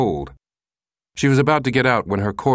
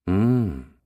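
sensuous moan. Acted. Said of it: "she moaned sensuously".

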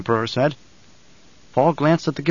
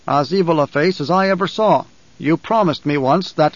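lightly voiced retainer pressing his lord; Gurney, grimly insistent. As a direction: remind your lord with restrained bitterness. Plays Gurney speaking to his lord.

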